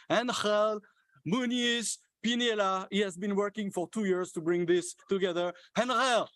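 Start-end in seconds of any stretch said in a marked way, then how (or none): 0.1-2.9 name proclaimed high in a French-tinged Spanish accent. Shown as a demonstration. French organizer honouring a colleague by name, attempted Spanish accent. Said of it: "with my French, uh, Spanish accent". 5.8-6.3 high, ringing call of a name. Real, not acted. Organizer summoning a colleague to be applauded, calling out.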